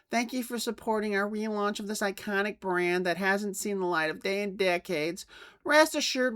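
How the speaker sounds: a lightly put-on, smug CEO reading his apology letter; mocking corporate voice. Youtuber mocking the toy CEO's letter to fans, in a lightly pompous voice. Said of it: "I wouldn't be using this voice for this reading".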